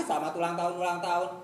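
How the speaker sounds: quick, grudging birthday greeting; mumbled obligatory happy birthday; half-hearted birthday wish. Retold or imitated. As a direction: toss off the wish without caring. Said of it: "bukan bahasa kasihnya seperti itu".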